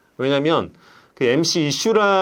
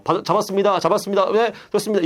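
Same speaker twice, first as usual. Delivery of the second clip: sports caster; 4 semitones higher, faster than usual. Shown as a demonstration. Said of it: "김성주 캐스터처럼".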